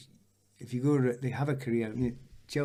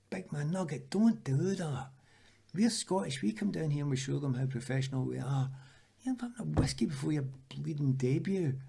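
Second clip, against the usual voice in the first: higher, exasperated pleading; mock scolding; 4 semitones higher than usual. Footballer telling off teammate drinking before debut, mock scolding. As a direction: tell off a teammate in appalled disbelief.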